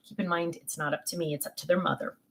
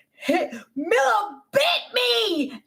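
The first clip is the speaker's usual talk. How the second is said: put-on high, slow tattling cry of a little boy; little boy crying out to grandma; child's tattling shout; 11 semitones higher, slower than usual. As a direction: wail like a kid who got hurt. Child screaming complaint.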